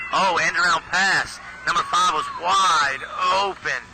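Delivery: excited. Real, not acted. End around pass play unfolding.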